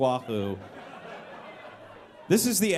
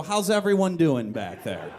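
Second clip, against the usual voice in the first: calm bus driver; 3 dB louder than usual. Retold or imitated. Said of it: "Like I'm some sort of trolley bus driver".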